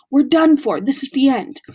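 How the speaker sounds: despairing moan. A narrator's reading. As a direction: groan it in despair. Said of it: "Ron moaned".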